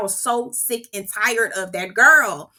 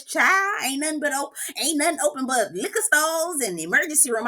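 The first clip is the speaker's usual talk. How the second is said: mock Southern accent, pitched a little up; put-on Southern accent; 3 semitones higher than usual. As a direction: imitate someone laying on a Southern accent. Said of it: "carry on with that Southern accent".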